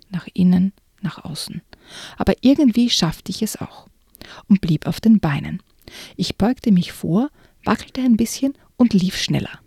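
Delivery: animated first-person storytelling; lively story narration. Acted. Reading the skating scene to listeners in lively narration. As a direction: tell it as if you're on the ice.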